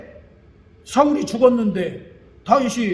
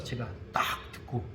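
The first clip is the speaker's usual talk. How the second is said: whispered aside; 8 semitones lower, 14 dB quieter than usual. Real, not acted. Aside after being amazed.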